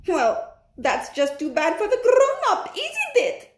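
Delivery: high laughing witch voice; cackling witch. Acted. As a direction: cackle through the words like a witch. Grand High Witch mocks grown-ups.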